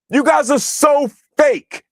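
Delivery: angry shout. Real, not acted. Streamer yelling slowly at his chat, angry. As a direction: spit it at them slowly.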